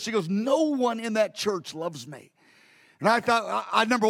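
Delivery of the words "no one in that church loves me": mild retold weeping. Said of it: "she was just weeping so".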